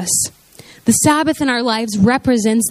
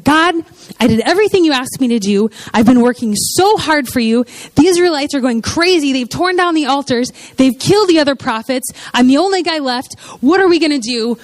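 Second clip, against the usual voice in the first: hurried, panicky pleading; freaking out; 3 semitones higher than usual. Acted. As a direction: plead like a man at his wits' end. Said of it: "he's freaking out".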